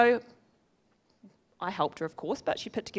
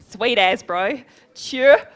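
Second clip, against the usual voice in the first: loud, playful Kiwi slang accent; 9 dB louder, much slower than usual. Shown as a demonstration. Speaker warns audience about the Kiwi accent, punchy Kiwi accent. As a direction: lean into the Kiwi accent for a laugh. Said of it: "speak with a Kiwi accent".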